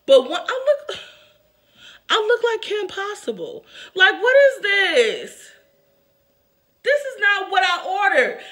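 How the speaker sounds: high, loud, slowed 'what is this'; laughing exasperation. Real, not acted. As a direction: laugh it out, stretching the last words. Laughing at how she looks.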